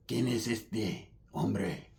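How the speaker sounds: low, slow, hushed creepy imitation; crazy paisa. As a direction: draw it out low and soft, spun out. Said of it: "he sounds all crazy".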